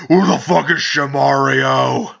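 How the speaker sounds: slow, mock-menacing fan at the door; lightly put-on angry intruder voice. Fans breaking down his door demanding someone, mock anger. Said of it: "breaking down my door and be like".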